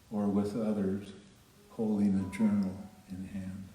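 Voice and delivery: measured poem reading with long pauses between phrases. Acted. Tribute to Anne for years of teaching poetry, poem reading. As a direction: read each line out firmly, letting it stand alone.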